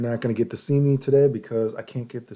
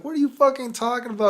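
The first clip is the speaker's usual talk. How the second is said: exasperated yell; 13 semitones higher, 3 dB louder, faster than usual. Retold or imitated. His heated retort.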